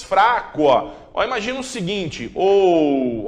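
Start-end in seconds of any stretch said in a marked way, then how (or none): 2.3-3.3 ou with the o strong and the u weak; ou, o leading; diphthong ou demo. Shown as a demonstration. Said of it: "o ou tá predominante".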